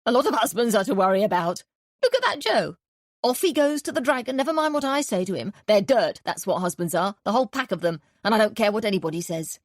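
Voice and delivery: loud, high scornful rant; ranting landlady. A narrator's reading. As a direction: tear into all husbands. Landlady rants about husbands.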